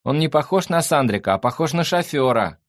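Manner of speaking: high, loud voiced objection; whiny fox. A narrator's reading. The fox doubts the newcomer is a brother, high and insistent. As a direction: protest in a high voice. Fox complains loudly across flat.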